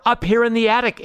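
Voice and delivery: high-pitched little mouse reply; little mice answering. A narrator's reading. Little mice answer Babar from the attic, high-voiced reply. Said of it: "answer the little mice".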